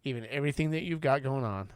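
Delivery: a hint of Jesus comforting a kneeling friend; tender Jesus. Jesus comforting ashamed Peter, gentle and tender. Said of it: "He just says".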